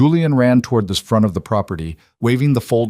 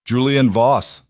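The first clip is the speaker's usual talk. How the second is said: calling out; 3 semitones higher, slower than usual. Acted. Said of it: "the man called out".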